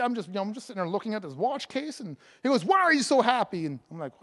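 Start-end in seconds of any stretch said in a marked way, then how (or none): 2.7-3.6 raised pitch, toned-down retold exclamation; milder astonished question. Retelling the sales associate's question, mildly astonished. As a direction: quote the amazed clerk lightly.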